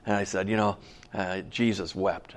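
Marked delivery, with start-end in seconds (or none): 1.5-2.3 soft, low, subdued scripture quote; retold solemn ad-lib, leading onward; improvised funeral homily. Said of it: "I made some stuff up".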